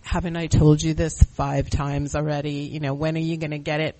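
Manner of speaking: acting out your own impatient reprimand; stern voice. Sponsor demonstrating their unkind side, mildly stern. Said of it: "with my stern voice".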